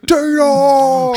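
high loud call across the room; yelling Tina. Retold or imitated. Boyfriend calling out for Tina, high shouted name. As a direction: shout her name in panic.

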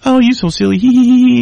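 put-on high, giggly girlfriend voice; laughing it off. Girlfriend giggles off his question about the fight, high mock giggle. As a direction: giggle the whole thing away. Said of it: "she laughs it off".

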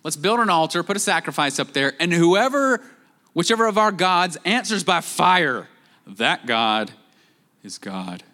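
a hint of a cocky prophet daring the other side; Elijah's challenge. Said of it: "when he says".

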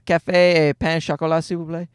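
put-on rehearsed order in a French accent; French pronunciation, softening at the end. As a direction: recite it like practiced tourist French. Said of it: "I had my rehearsed".

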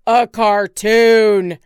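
very loud, slow outburst; exasperated shout. Acted. Husband to wife, shouting in frustration. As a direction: bellow it in disbelief. George bursts out.

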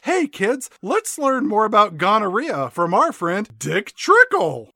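put-on high cheery kids' mascot; chirpy kids' TV host greeting; bright squeaky sing-song welcome.

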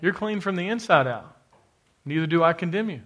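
a hint of a gentle, loving Lord; tender voice of the Lord. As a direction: speak love over them gently. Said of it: "the Lord says".

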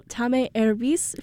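tá mé erbís said slowly, rising on mé; careful Irish attempt. Shown as a demonstration. Host using the new Irish phrase for the classes. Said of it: "Am I saying that correctly?".

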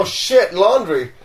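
loud, high outburst of realization; real sudden dismay. Real, not acted. Traveler remembering laundry before leaving, startled and half laughing. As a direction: blurt it out, tipping into laughter.

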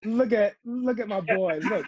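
high, excited cooing over someone; delighted gushing. Real, not acted. Fussing over someone who appeared.

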